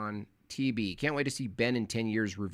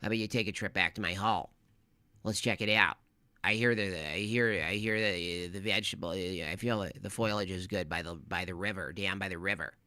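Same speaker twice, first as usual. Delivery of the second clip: lightly voiced sly cartoon fox luring; understated tempting fox; sneaky fox voice; 2 semitones lower, faster than usual. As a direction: coax them down to the river, slyly. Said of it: "Why do you talk like that".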